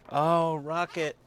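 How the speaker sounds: slow exasperated groan at dog; half-laughing scold. Real, not acted. Scolding the dog over smell.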